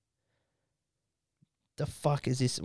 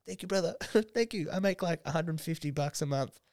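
high, soft voice imitating a grateful crier; mock tearful gratitude; 4 semitones higher, 5 dB quieter than usual. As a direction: lightly play someone thanking you through tears. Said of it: "just crying. He's like".

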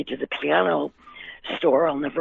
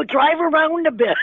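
mock panic; 11 semitones higher, 4 dB louder than usual. Panicking, telling driver to keep going.

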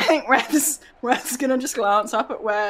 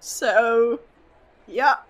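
pompous boastful wrestler; 4 semitones higher, 4 dB louder than usual. Acted. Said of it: "just say".

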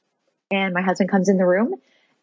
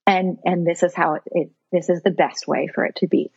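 lower, steady reassurance; reassuring self-talk; 3 semitones lower than usual. Retold or imitated. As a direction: calmly talk yourself down. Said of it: "did some self-talk".

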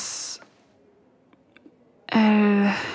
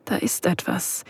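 whisper; 5 dB quieter than usual. Acted. Noticing the partner's intense look. (langsames, leises Flüstern)

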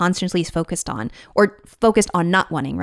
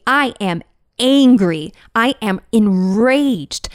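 mock anger; much slower than usual. Voicing grief as anger to listeners, slow and forceful. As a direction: lean into the rage, drawn out. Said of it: "No, grief can be".

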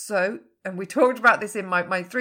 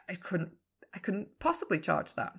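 much softer, hesitant mumble of self-doubt; timid inner doubt; 2 semitones lower, 6 dB quieter than usual. Pretend. Coach voicing a client's internal freak-out, timid and soft. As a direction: shrink back from the number. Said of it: "a little internal freak out and going".

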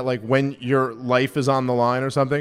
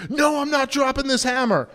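much higher-pitched, indignant imitation of refusing; mock defiant outburst; 11 semitones higher than usual. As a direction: act out a worked-up refusal. Imagined defiant refusal to police.

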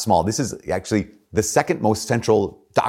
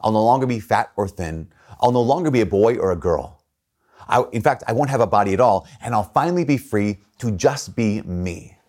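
reading the book aloud; 2 semitones higher than usual. Retold or imitated. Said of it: "it says, um".

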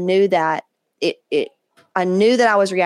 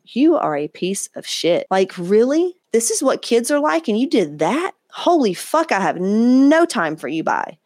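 mock telling off; 3 semitones higher, slower than usual. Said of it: "I could look at my mom and go".

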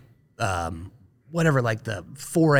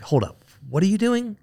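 surprised reporter; 8 semitones higher than usual. Retold or imitated. News crew reacting in surprise.

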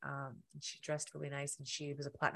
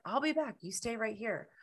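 woman's voice; 7 semitones higher than usual. Retold or imitated. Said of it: "She's like".

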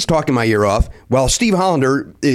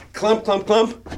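soft clomping footsteps, spoken; imitated footsteps; 5 semitones higher, 4 dB quieter, much slower than usual. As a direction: mimic clumping up stairs in short beats. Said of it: "it's literally this. It's like".

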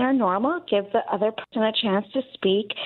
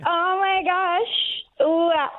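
excited gasp; 6 semitones higher, much slower than usual. Real, not acted. Caller learns it's her favorite show.

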